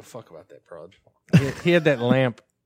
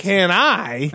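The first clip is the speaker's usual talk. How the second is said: slowly spelled out, a bit higher; mock slow enunciation; 4 semitones higher than usual. Friend mocking the Florida store exchange, exaggeratedly slow. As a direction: stretch each word for someone who can't follow. Slow mimic for uncomprehending Southerner.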